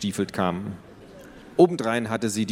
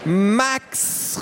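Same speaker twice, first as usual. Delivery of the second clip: calling out; 12 semitones higher than usual. Acted. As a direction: yell for your brother. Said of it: "rief Tiffany".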